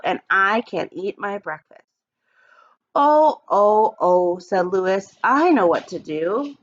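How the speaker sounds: put-on expressive read-aloud for young kids; storybook reading. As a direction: read it like story time for the class. Teacher reads picture book aloud.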